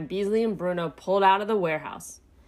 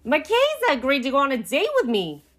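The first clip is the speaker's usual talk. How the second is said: higher, thrilled character voice; excited squeal; 6 semitones higher, 3 dB louder than usual. A narrator's reading. Fredo tells Pinky about his date, squealing. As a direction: squeal the big news. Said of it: "he squealed".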